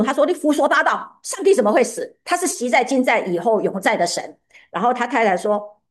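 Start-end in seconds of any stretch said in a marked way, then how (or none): 0.3-4.4 mildly indignant retort, pitched up then falling away; a touch of acted anger, voice raised in pitch only; retold outrage. Luther rebuking his wife for saying God died, mildly mock-outraged. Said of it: "顿时大怒".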